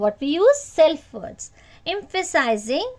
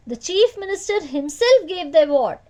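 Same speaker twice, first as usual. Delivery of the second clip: "himself" punched a little louder; stress on himself; 2 semitones higher, 3 dB louder than usual. Shown as a demonstration. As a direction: demonstrate the emphasis by hitting "himself". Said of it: "Emphasis is given".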